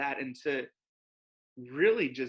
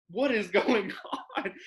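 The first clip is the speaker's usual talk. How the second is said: retold bewilderment; 6 semitones higher than usual. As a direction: act out baffled disbelief at your phone. Retelling reaction to flooded phone.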